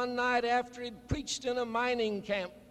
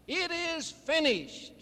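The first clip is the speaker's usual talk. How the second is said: Jesus' last words; 5 semitones higher than usual. Acted. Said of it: "And Jesus on the cross wrote".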